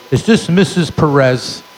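formal junkyard clerk voice; a stiff clerk on the line; mock official tone; official on the phone. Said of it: "he goes".

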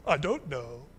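low, lightly voiced doubtful mumble; a hint of a puzzled disciple; Thomas unsure. Thomas answering Jesus, lightly voiced low doubt. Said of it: "Thomas ... says".

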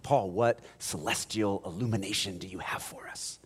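breathless whispered question; awed whisper. Retold or imitated. Cult members begging Paul for his secret, awed whisper. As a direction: whisper in reverent awe.

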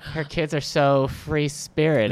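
slow, sweetly catty remark; passive-aggressive drawl. Acted. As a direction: drag it out with fake praise. Mocking a judgmental parent.

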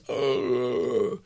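soft, low yawning groan; a yawn heard from far down the road; distant yawn call. Retold or imitated. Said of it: "Someone a mile down the road hears".

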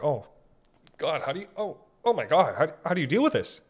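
high, hurried awe at what he saw; stunned disbelief. Retold or imitated. Bystander amazed at someone's gross job, high and rushed. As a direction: gasp it out like you can't believe it.

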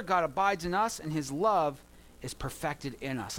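measured, reverent Bible reading with weight on love; scripture reading. Acted. Reads scripture passage.

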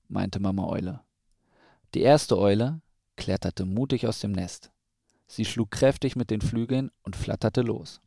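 measured storybook narration with clear pauses; children's story reading. A narrator's reading. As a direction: read a picture book to a small child. Reads a children's story aloud.

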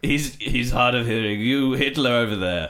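lightly hammed Victorian host; old-timey announcer; old gramophone. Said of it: "first ever podcast".

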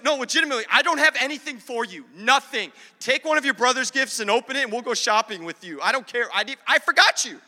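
lightly acted, emphatic grandma; mock blunt admission. Grandma telling grandson she forgot him, mock blunt admission. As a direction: punch out the confession, slightly hammed-up.

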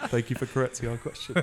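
quick words through laughter; laughing thanks. Real, not acted. Quizmaster thanks contestant for the correction, laughing. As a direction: say it while cracking up.

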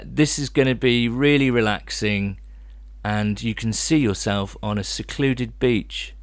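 a mild example of a soothing voice; host modelling a relaxation line for his co-host; soothing hypnotherapist demo. Shown as a demonstration.

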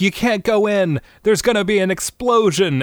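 high-pitched alarm; playful frantic plea; mock urgent warning. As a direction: warn them in hammed-up panic. Acts warning family of explosion.

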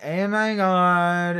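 put-on very slow, stretched-out valley girl gasp; drawn-out teen girl. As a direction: drag out each word like a bored teenager. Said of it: "She's like".

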